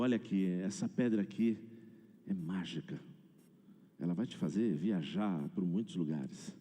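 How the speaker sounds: a hint of a hushed salesman; lightly voiced tempter. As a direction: quietly sell him on something magical. Dealer pitches the magic stone.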